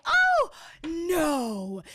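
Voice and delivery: loud, very high oh no; shrill delighted oh; starstruck gasp. Retold or imitated. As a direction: fake awe at the news. Mock starstruck reaction.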